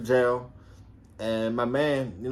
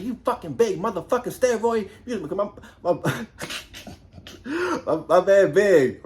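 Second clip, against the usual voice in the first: imitating Love's insult; 5 semitones higher, 3 dB louder than usual.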